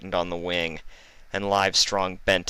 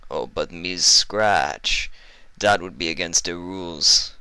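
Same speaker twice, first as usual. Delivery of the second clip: menacing northern heavy. Acted. Iceberg voiced in story.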